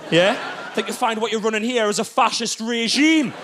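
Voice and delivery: lightly voiced menacing toddler; a hint of a cocky tyrant laying down rules; toddler as gang boss.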